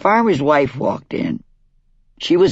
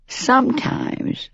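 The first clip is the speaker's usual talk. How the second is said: whispering; 10 semitones higher, 4 dB quieter, slower than usual. Acted. Sister confides a secret.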